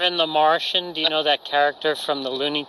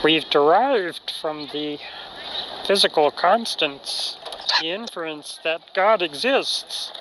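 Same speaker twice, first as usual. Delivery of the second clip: Otangelo impression. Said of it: "do that voice, but talking about fine tuning".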